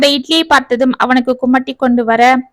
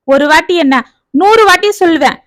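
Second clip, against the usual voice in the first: defiant father; 4 semitones higher than usual. Acted. Father defiantly shouts back.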